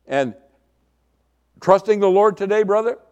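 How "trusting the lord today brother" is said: high, loud imitated brotherly hail; hearty Christian greeting. Bible student to a passing brother, hearty imitated greeting. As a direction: greet a fellow believer with pious gusto. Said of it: "little phrases back then that was being used among Christians".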